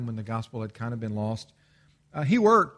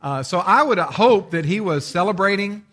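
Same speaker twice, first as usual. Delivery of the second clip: amused; 5 semitones higher, 8 dB louder than usual. Real, not acted. Joking aside to the congregation.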